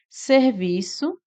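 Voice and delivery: ser-vi-ço spelled out slowly; split into syllables. Shown as a demonstration. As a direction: break the word into its syllables. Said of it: "Separamos serviço dessa forma".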